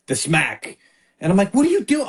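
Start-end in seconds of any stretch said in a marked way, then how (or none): 1.5-2.1 high-pitched parental exclamation; retold startled scolding. Father retelling his reaction to the smack, high startled scolding.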